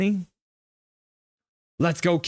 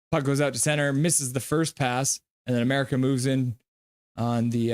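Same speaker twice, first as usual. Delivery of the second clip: play-by-play. Acted. Streamer calls hockey game.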